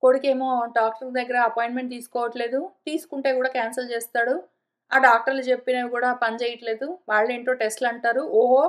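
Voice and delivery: lightly voiced old woman, rattling off her aches fast; mild whiny lament over her ailments; a hint of a fretful old lady complaining; grieving old woman. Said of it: "ఎంతగా దుఃఖిస్తుంటుందంటే".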